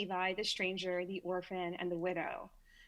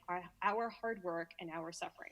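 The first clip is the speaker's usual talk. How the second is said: Brooklyn accent; 4 semitones lower, 4 dB quieter than usual. Real, not acted. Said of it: "my Brooklyn accent just came out".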